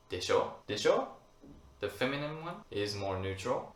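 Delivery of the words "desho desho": knowing tag question. Shown as a demonstration. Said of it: "you would say".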